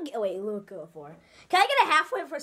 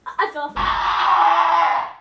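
slow replay; 5 dB louder, much slower than usual. Shown as a demonstration. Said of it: "I need a replay".

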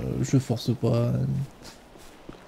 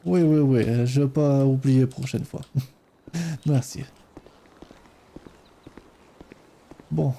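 put-on Ukrainian accent. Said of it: "mon superbe accent ukrainien".

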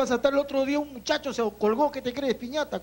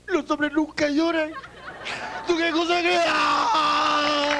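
hammed-up anguished yell; 5 semitones higher, much slower than usual. Jilted man breaks, yelling.

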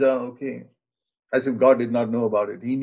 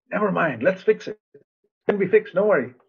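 encouraging; 6 semitones higher than usual. Retold or imitated. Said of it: "language of encouragement".

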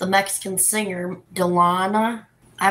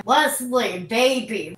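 calling out sweetly; 3 semitones higher, slower than usual. Real, not acted. Calling her partner sweetly.

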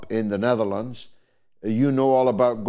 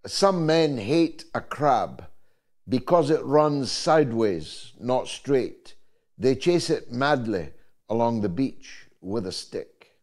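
poem recitation. Acted. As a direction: recite the couplet deliberately, phrase by phrase. Recites remembered poem couplet.

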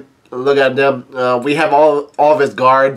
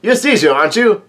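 mild yell; 6 semitones higher than usual. Retold or imitated. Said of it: "Luffy yells out".

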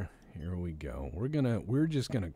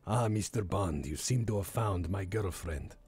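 lightly voiced Greek supervillain. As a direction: play a mild Bond-film villain greeting his rival. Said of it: "he's like a Greek supervillain".

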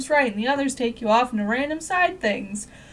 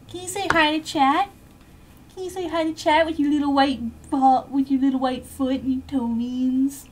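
squeaky dog talk. Real, not acted. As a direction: coax the dog to wave.

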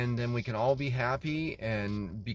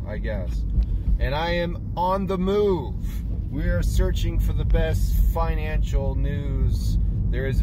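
a bit louder, mock TV news anchor; 3 dB louder than usual. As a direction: play a cheesy financial news host. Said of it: "I don't know why I'm talking like this".

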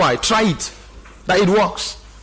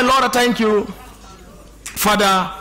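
uninvolved, rote prayer; unemotional prayer; slower than usual. Retold or imitated. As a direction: imitate someone praying with no feeling. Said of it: "You can't see their emotions involved".

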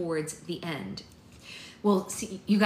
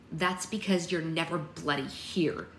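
snapping; slower than usual. Acted. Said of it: "Essie snapped".

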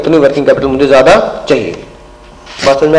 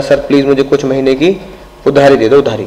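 innocent pleading; 3 semitones lower, 3 dB quieter than usual. Retold or imitated. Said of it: "इतनी मासूमियत से बोल रहा है".

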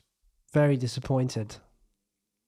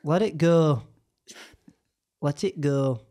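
put-on Sheffield accent. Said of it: "It's very Sheffield".

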